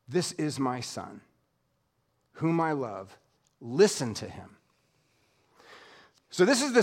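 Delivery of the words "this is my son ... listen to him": low, soft and solemn, each phrase set apart; voice from heaven. Acted. God's voice from the cloud speaking to the disciples, hushed and solemn. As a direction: read the heavenly voice hushed and reverent.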